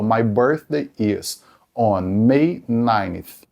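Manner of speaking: very slow, careful English sentence; slow example read. Shown as a demonstration. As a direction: lay out each word for learners. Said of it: "se eu falo". (bem devagar, didático)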